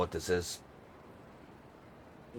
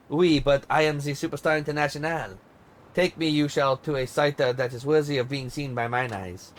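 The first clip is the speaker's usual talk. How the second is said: bossy diva in a light mock French accent, sharp start. Diva scolds her tour guide, light mock French accent. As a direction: snap at him in put-on French accent, then command. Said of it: "What do you think of my French accent?".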